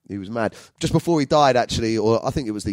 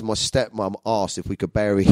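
ordinary talk

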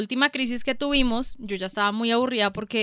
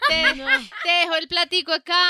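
sweet voice; 6 semitones higher than usual. Retold or imitated. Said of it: "voicing herself".

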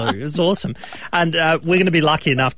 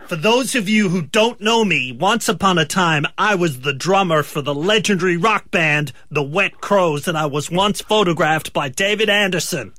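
put-on slightly raised American rock-star accent; a lightly put-on American accent, announced like a legend; 4 semitones higher than usual. Actor tries one more line in American accent. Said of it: "Let me do one more line".

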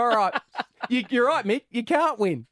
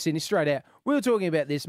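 normal talking voice

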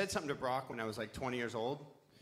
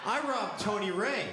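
slow, louder, laughing confession; laughing admission; 8 semitones higher, 7 dB louder than usual. Real, not acted. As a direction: own it slowly with a laugh. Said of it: "I didn't fucking rob that guy".

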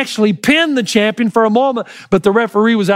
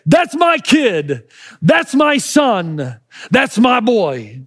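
proud declaration; much slower than usual. Retold or imitated. Proud father claiming his son.

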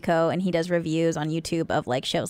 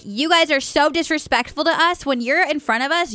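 higher, mock-indignant scolding; imitating pissed-off mom; 6 semitones higher than usual. Reality-show mom to Spanish-speaking moms, mock pissed-off. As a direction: scold like an offended mom, mildly heated. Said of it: "literally got pissed at two of the other moms".

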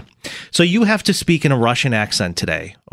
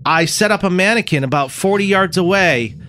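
lightly voiced lawman; 3 semitones higher than usual. Lawman briefing helper to lure killer, lightly acted. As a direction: play a movie lawman giving orders, a little pitched up.

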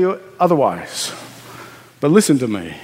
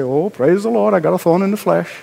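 glib; 2 semitones lower, faster than usual. Pretend. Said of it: "glibly say".

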